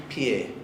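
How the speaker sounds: "pie" with a small I glide before the E; Icelandic P. Shown as a demonstration. Teacher demonstrating the letter P as Icelanders say it, "pie". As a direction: say "pie" as one syllable, "pyeh". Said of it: "Ellos van a decir".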